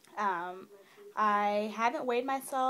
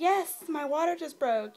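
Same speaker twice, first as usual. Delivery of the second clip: higher, louder panicked yes; retold freak-out; 5 semitones higher, 5 dB louder than usual. Wife to husband as her water breaks, freaking out. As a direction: re-enact an urgent, flustered confirmation. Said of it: "freaking out".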